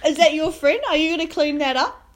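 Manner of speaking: yelling at grown men over the vomit; retold yelling. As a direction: hammer them with questions, loud. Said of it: "I'm, like, yelling at these grown men".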